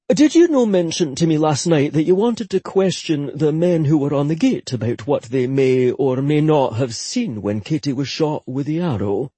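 put-on grave Scottish young man; solemn younger brother. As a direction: ask it gravely, Scottish lilt. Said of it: "Rory asked solemnly".

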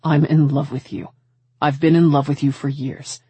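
lightly voiced man confessing his love; lovelorn suitor. Man confessing love to his best friend's girl, earnest. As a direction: confess long-hidden love, pitch just under narration.

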